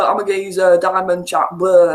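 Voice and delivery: throwaway caricature of a Cockney geezer; mock Cockney. Northerner mocking game accents, caricature Cockney. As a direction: parody Cockney in a quick burst. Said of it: "that's your Cockney".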